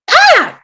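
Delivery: short, high, loud "ah"; startled cry. Pretend. Startled cry before announcing arrival.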